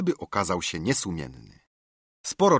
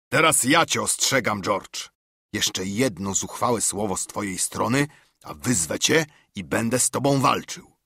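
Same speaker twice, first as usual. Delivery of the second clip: raised voice, threatening to fight; angry warning. Acted. Silver warns George, raised and threatening. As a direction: warn George off with heat. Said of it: "krzyknął".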